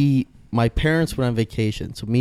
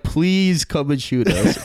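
high, slow mock plea; hammed-up begging, pitched up; mock pleading; 5 semitones higher, slower than usual. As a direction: beg for it as a joke, drawn out. Joking plea acted out.

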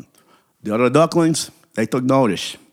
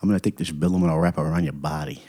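low, softer New York pickup patter; sleazy come-on; 4 semitones lower, 4 dB quieter than usual. Acted. Duckling coming on to a passing beauty, sleazy. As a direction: sweet-talk her low and suggestively.

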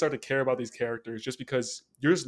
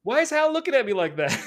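laughing; 12 semitones higher, 8 dB louder than usual. Real, not acted. Laughing through question.

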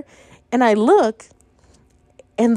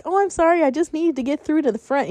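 very nicely; 5 semitones higher than usual. Retold or imitated. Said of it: "I said very nicely".

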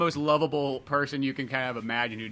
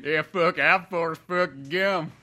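Forrest Gump drawl; 3 semitones higher, slower than usual. Retold or imitated. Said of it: "talking in that accent".

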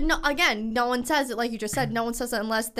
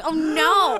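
higher, louder put-on self voice; her own put-on voice; 4 semitones higher, 6 dB louder than usual. Retelling to podcast host, put-on self voice. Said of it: "in my" own voice.

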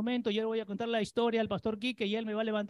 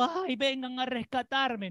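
mock whimper; 2 semitones higher, slower than usual. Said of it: "No anden tirados en el piso llorando".

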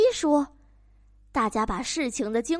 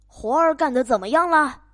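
loud, demanding farmer; 懒农夫大声嚷嚷; farmer yelling; 6 dB louder than usual. Acted. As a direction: bark it from bed like a lazy boss. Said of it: "农夫嚷嚷道".

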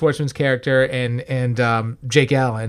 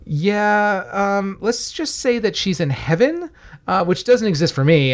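higher, lightly put-on boy's voice, matter-of-fact; tossing it off like a blunt kid; mimicking a deadpan teen; 4 semitones higher, slower than usual. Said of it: "And he's like".

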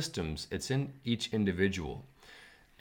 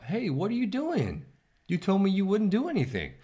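betrayed monkey; 12 semitones higher, 4 dB louder than usual. Acted. Dying monkey crying out at the crocodile, high and betrayed. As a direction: shriek at the traitor as you go under. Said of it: "the monkey said to the crocodile".

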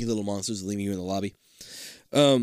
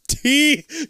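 high, loud Teeth!; reacting to the driver's teeth; shocked; 6 dB louder than usual. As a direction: blurt it in shock. Gasp at monster face.

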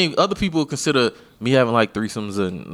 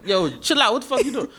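pitched-up mock alarm; retold protest; 7 semitones higher, 4 dB quieter than usual. Man telling the earwax girl to back off, alarmed.

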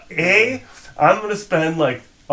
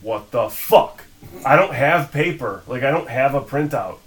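retold outburst; 2 semitones higher, 5 dB louder than usual. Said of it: "And I was like".

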